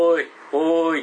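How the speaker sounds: eerie call in the dark. Retold or imitated. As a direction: unseen voice calling, loud. Quoting the mystery voice.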